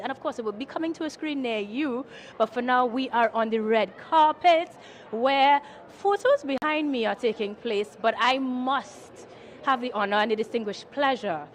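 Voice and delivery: bubbly red carpet host; gushing red carpet chatter. Acted. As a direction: gush like an entertainment presenter. Host addresses viewers and guests.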